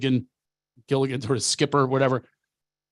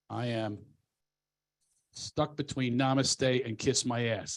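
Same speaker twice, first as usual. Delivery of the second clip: Namaste and Kiss My Ass slowed down and spaced out, a little softer; slow catchphrase; 3 semitones lower, 7 dB quieter, slower than usual. Shown as a demonstration. Showing off his new saying, slow and deliberate. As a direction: savor each word of the punchline slowly. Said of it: "Here's my new saying".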